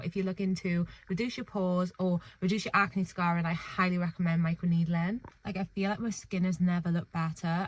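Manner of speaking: slight lisp from aligners; talking with a lisp from aligners. Real, not acted. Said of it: "sorry about the lisp again".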